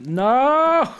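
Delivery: high, loud flat no; loud refusal. Real, not acted. Streamer rejects the suggestion to date Robert, loud high no. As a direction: shout it down at once.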